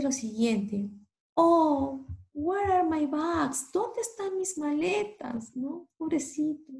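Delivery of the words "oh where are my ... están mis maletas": high, wailing lost traveller; acted crying. Crying tourist calls out for his missing bags. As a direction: wail about the lost bags. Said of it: "He's crying, está llorando".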